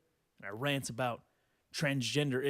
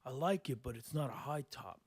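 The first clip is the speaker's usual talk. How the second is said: mock indecisive cousin; 4 semitones lower, 8 dB quieter than usual. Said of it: "he's like".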